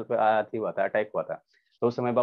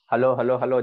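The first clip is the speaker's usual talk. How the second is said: calling out; 7 dB louder than usual. Real, not acted. Calling students on video call.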